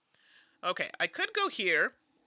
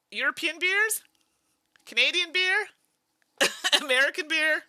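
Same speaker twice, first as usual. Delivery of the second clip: asking through a laugh; laughing question; 10 semitones higher, 6 dB louder than usual. Real, not acted. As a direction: tease them with a laugh. Teasing chat about beer.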